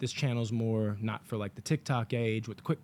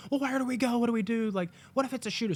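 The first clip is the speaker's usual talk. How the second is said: high, fretful crowd imitation; mock panic; 10 semitones higher, faster than usual. Moviegoers unsure where to go, high mock panic. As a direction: mimic helpless people fretting, pitched up.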